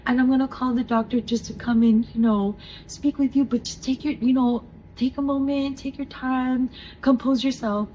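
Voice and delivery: lightly voiced nurse soothing a patient; reassuring nurse. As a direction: gently give someone space. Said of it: "as she's wiping her tears".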